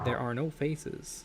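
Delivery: slow quiet robot drone; lightly imitating a creepy robot. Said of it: "a creepy robot voice".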